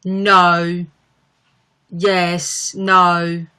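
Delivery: drawn single words in London accent; a singer's London accent. Shown as a demonstration. Streamer demonstrating the singer's few words, North London accent. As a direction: say each word alone in North London. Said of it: "the only words I can really do".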